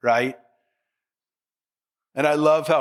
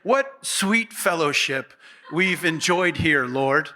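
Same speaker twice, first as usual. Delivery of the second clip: mock gushing Peter; slower than usual. Peter gushing flattery to the Lord.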